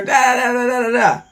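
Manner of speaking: rapid "da da da" babble; imitated cross-talk chatter. Host showing two players talking at once, mock chatter. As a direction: rattle off nonsense syllables like people talking over each other. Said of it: "you can talk over each other".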